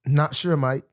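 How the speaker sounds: put-on shaky London accent drifting toward Australian; badly faked London accent, slightly Australian. Guest answering host's accent query, mock London accent. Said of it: "I think you're an Australian".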